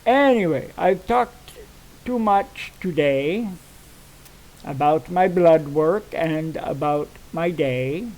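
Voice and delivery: usual speaking voice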